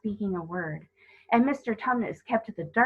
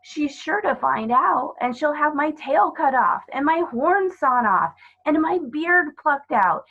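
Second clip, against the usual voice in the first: tearful; 8 semitones higher, 7 dB louder than usual. Acted. The fawn tearfully tells Lucy of the witch's punishment. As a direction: voice rising in distress. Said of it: "beginning to cry again".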